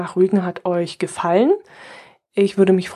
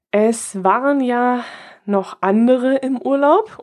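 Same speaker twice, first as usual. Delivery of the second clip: slow, higher, meaningful hint; pointed hint; 5 semitones higher, slower than usual. Shown as a demonstration. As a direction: drag it out as a nudge. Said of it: "eine wunderbare Überleitung".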